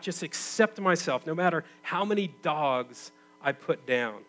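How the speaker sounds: retold indignant outburst, pushing the questions hard; exploding in protest. Group member exploding at the therapist's advice, retold outburst. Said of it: "He explodes".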